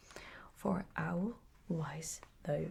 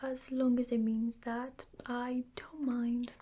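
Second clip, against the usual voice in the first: humbly; 5 semitones higher than usual. Acted. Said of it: "said Pooh humbly".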